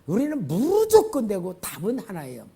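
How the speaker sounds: loud, rising proclamations line by line; climactic preaching. Acted. Pastor leading a confession of faith, proclaiming loudly.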